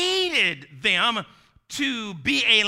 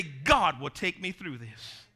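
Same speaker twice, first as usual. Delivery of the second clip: slow and low, almost to yourself; softer, slower take of the same words; quiet affirmation; 6 semitones lower, 5 dB quieter than usual. Shown as a demonstration. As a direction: murmur it with quiet trust.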